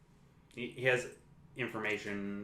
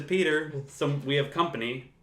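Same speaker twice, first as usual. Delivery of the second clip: imitating Aunt May; 4 semitones higher, 4 dB louder than usual. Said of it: "she says".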